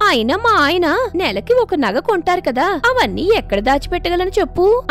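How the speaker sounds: a touch of a neighbour rubbing it in; mild taunting boast. Acted. Sujata boasts of jewels to hurt Seetalu, smug. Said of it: "సీతాలు నొచ్చుకునే విధంగా మాట్లాడుతుంది".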